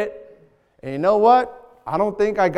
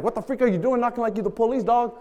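irked drug dealer; 2 semitones higher, 6 dB quieter than usual. Retold or imitated. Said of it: "the drug dealer's like".

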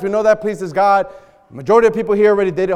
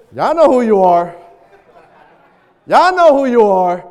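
pointed call-out; 7 dB louder than usual. Acted. Calls out police-style knockers jokingly.

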